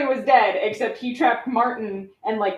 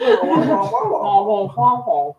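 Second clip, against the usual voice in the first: muffled wah wah talk; much slower than usual. Retold or imitated. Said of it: "like the teachers in Charlie Brown".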